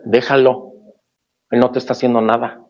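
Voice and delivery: insistent doting mother. Retold or imitated. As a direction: defend her baby boy, raising her voice a bit. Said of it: "¿Han visto esos ejemplos?".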